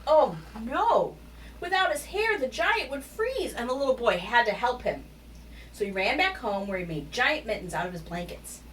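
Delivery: animated picture-book read, lively pitch swings; story narration. A narrator's reading. Narrator telling children of Wilfred the hairy giant, animated storytelling. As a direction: read it expressively to young children.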